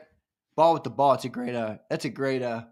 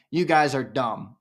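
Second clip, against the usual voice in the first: blunt insult. Retold or imitated. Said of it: "it more just would have been".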